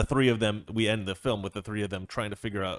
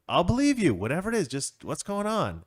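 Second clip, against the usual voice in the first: Jeffrey pleading; 6 semitones higher than usual. Acted.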